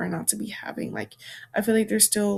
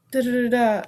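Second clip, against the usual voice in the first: mocking parrot; 5 dB louder than usual. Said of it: "in a mocking tone".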